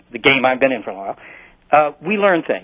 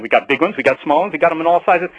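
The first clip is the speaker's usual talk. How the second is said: hard sell ad. Retold or imitated. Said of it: "you sound like a used car salesman".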